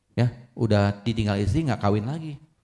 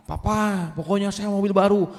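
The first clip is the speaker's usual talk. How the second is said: excited calling; 9 semitones higher than usual. Acted. Son running home demands his promised car, high excited call. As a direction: call out to Dad, pitched well up.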